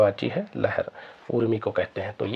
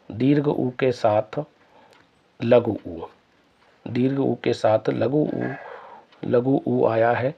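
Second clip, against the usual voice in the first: 1 slow explanation; slower than usual. Shown as a demonstration. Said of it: "explaining vowel rule".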